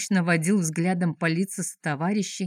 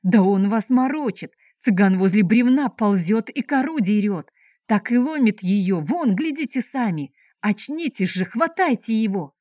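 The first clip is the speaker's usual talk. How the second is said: higher, louder enraged order; raging; 3 semitones higher, 3 dB louder than usual. Acted. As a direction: bark at the dazed guards. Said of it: "чуть удар не хватил от ярости". (яростный крик)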